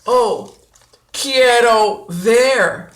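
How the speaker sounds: quiero ver drawn out slowly. Shown as a demonstration. Teacher modelling quiero ver slowly. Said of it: "I would say these things".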